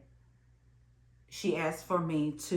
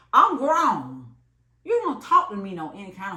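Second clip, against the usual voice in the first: indignant; 2 semitones higher, 6 dB louder than usual. Real, not acted. Recalling being slung an instrument, a loud indignant protest. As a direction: insist on your dignity.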